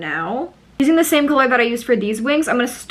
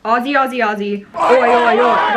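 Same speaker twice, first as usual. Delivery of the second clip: Aussie chant building to louder ois; playful cheer; 3 dB louder than usual. Acted. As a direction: chant it like a sports fan. Australian cheer, call and response.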